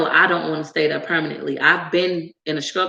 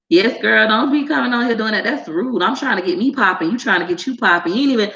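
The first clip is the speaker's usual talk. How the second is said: higher-pitched sassy scolding; sassy telling-off; 3 semitones higher than usual. Acted. Creator tells off a self-promoting commenter, sassy scolding. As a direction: check them with playful sass.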